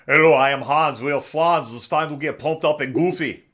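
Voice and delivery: Hans and Franz bodybuilder voice; pumped-up gym hype; energy drink ad. Pretend.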